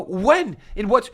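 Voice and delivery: high, loud disbelief, retold; incredulous retort. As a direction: fire back in shocked disbelief.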